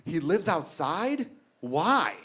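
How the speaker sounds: slow, rising disbelief; a small child stunned by the news; shocked little son. Retold or imitated.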